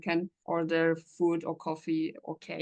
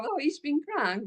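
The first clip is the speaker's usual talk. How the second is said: proud German phrase; 8 semitones higher than usual. Retold or imitated. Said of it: "And then I just go".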